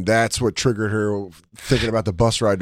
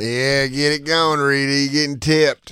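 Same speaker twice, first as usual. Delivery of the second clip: higher, slow drawn-out call; put-on character; 4 semitones higher than usual. Co-host joins the Rita bit.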